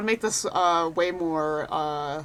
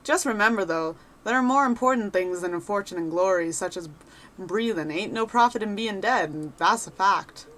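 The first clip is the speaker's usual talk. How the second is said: a lightly voiced cheerful rogue adventurer; chatty wanderer sizing up a newcomer; folksy adventurer. Reads NPC adventurer lines.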